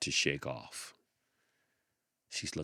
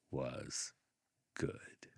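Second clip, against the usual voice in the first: whispered, much softer; 2 semitones lower, 8 dB quieter than usual. A narrator's reading. Narrator tells the children the girl was good, whispered. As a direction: breathe it gently. Quiet closing affirmation.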